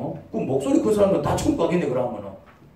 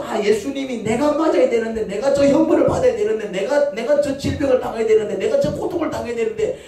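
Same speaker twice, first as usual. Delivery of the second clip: fervent realization; 5 semitones higher than usual. Acted. Acts believer realizing the sacrifice.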